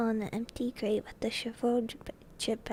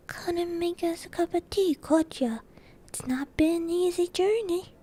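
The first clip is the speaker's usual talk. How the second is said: higher, louder voice for a giant visitor; booming-in giant, raised and familiar; gruff-mannered giant stranger; 6 semitones higher, 5 dB louder than usual. Acted. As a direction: call out casually as the big newcomer.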